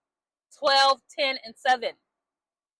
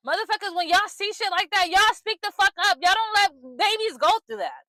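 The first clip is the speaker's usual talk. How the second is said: angry, higher-pitched scolding; really pissed off; 4 semitones higher than usual. Real, not acted. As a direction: tell them off in real anger, pitch raised. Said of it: "I'm so fucking pissed off".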